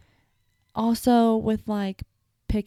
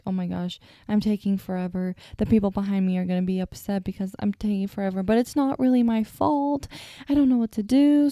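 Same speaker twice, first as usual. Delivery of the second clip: inner panic. Retold or imitated. To herself at the counter, mounting panic. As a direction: panic to yourself as the line grows. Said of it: "panicking in my head".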